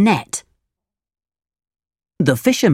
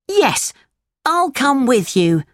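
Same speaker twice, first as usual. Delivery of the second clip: put-on eager puppet boy; 9 semitones higher than usual. Pinocchio voiced in story.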